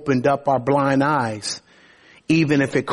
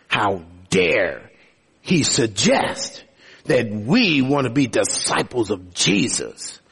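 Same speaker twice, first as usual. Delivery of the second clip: indignant Pharisees; 5 semitones lower than usual. Acted.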